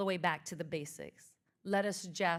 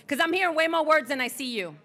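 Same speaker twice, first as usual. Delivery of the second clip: laughing tease; 5 semitones higher, 7 dB louder than usual. Real, not acted. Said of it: "teasing the audience".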